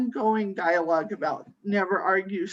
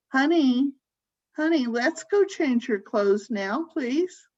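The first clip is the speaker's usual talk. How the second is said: mildly sugary caregiver coaxing; slightly raised, cooing endearment; baby talk; 3 semitones higher, slower than usual. Shown as a demonstration. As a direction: lightly coax as if to a small child, pitch lifting at the ends. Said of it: "when you're talking baby talk".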